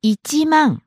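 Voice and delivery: each syllable slowly and distinctly; over-enunciate every sound; slow and clear. Shown as a demonstration. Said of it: "One more time slowly".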